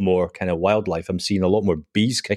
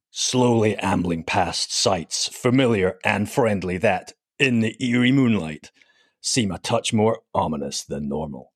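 movie trailer voice. Pretend. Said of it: "read his bio out in some kind of sort of movie trailer voice".

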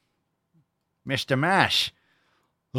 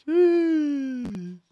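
high shocked yelp. Real, not acted.

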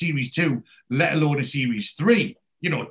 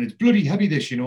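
complaining; 2 semitones higher, 4 dB louder, faster than usual. Retold or imitated. Moxie lifting the coffin into the van, complaining loudly. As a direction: moan about the weight of the load.

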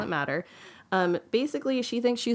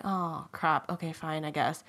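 grudging acceptance; 3 semitones lower, 4 dB quieter than usual. Retold or imitated. Princess grudgingly follows the singer home.

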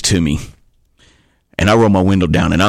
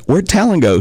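high puzzled question; 10 semitones higher than usual. Retold or imitated. Retold confusion in car.

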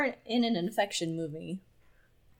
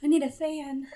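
laughing; 6 semitones higher than usual. Real, not acted. Laughing mock swoon after sexy voice.

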